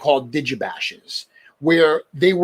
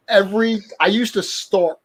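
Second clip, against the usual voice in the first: put-on New England accent; 4 semitones higher than usual. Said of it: "do it more".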